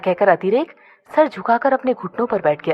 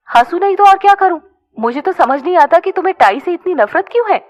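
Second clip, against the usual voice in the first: laughing; 8 semitones higher, 5 dB louder than usual. A narrator's reading. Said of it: "Aditi ने हंसते हुए कहा".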